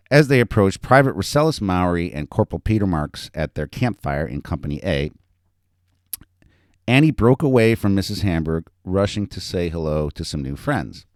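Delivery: animated reading of a story; story narration. A narrator's reading. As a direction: read it out to an audience with lively emphasis. Author reads own story aloud.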